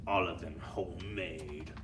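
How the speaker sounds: slow, low, sly gloating; fiendish leer. Acted. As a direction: savour the wicked joke. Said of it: "she added with a fiendish leer".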